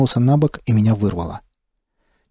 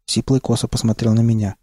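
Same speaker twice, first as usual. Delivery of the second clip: ordinary delivery, nothing marked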